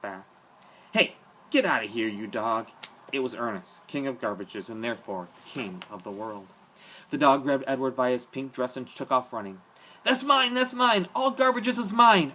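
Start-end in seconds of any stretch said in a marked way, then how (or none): 0.9-2.7 gruff yell. A narrator's reading. Ernest chasing the dog away. 10.0-12.3 shrill, much higher, loud possessive yell, slow at the end; madman's shout. A narrator's reading. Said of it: "Ernest shouted".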